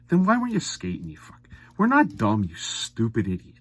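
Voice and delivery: heated fan rant; angry outburst. Real, not acted. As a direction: throw it at him like an insult. Rants at injured player.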